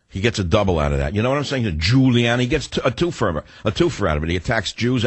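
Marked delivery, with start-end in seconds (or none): 1.8-2.5 "Giuliani" with the opening syllable punched; stress on first syllable. Retold or imitated. Host showing the double meaning, "Giuliani" stressed on its first syllable. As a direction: lean hard on the "Giu" in "Giuliani". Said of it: "with an emphasis on the first syllable".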